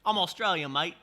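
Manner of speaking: put-on a quick, hammy stab at an Australian accent; lightly put-on Australian twang; bad Australian accent. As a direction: toss off a terrible Aussie accent, mate. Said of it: "Terrible accent I did".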